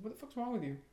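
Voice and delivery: high, loud hammed-up scolding of the dog; mock angry rant at dog. Owner scolding the dog that barks at the door, mock furious yell. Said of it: "it's like".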